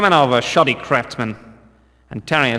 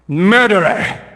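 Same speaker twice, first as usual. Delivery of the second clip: louder, furious accusation; accusing shout; 4 semitones higher, 4 dB louder than usual. Acted. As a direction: hurl the word at the killer. Guard accuses the killer.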